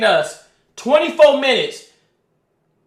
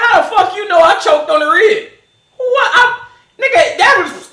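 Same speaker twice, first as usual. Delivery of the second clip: laughing; 5 semitones higher than usual. Real, not acted.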